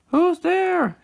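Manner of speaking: high loud hollered question. Acted. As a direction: holler it out to whoever's hiding. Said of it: "Tommy hollered".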